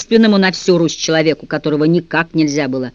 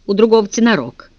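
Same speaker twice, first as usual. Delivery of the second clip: ordinary delivery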